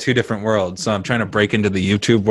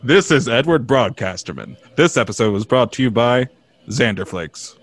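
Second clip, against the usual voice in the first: put-on announcer sponsor read; hacky radio voice. Host faking a sponsor credit, hacky announcer voice. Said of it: "the hacky radio voice".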